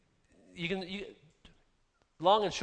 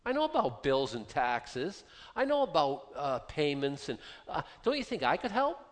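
God pleading; 2 semitones higher than usual. Acted. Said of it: "God's fairly shouting to us".

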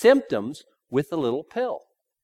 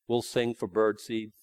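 mock beggar's sign; 5 semitones lower, 5 dB quieter than usual. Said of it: "little sign".

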